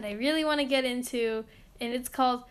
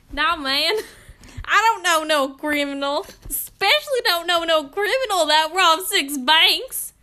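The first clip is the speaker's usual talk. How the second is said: put-on Southern accent, higher on the protests; 4 semitones higher, 4 dB louder than usual. Improvising a suspect with a sack of money, put-on Southern accent. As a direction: do a lively comic Southern accent. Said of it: "I went from Southern to New Jersey".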